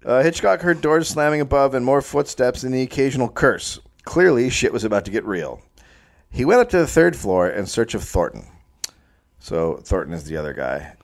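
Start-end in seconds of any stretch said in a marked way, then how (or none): 0.0-8.5 measured, read-aloud storyteller delivery; story narration. A narrator's reading. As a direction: narrate the tale from the page.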